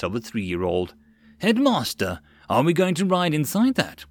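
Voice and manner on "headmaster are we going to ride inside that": nervous. Acted. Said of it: "Liz asked nervously".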